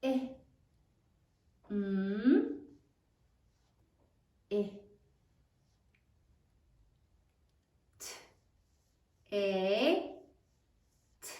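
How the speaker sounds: "I, M, I, T, A, T" as isolated sounds with long writing gaps; sounding out. Shown as a demonstration. Class says it as they write, "I, M, I, T, A, T" sound by sound. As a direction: draw out each sound of "I, M, I, T, A, T" separately. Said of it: "say it as you write it".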